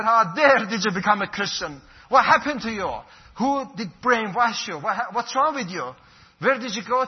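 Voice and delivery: mother's outrage. Retold or imitated. Mother scolding her son on the phone for converting, angry and loud. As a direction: play the shocked mother tearing into her son.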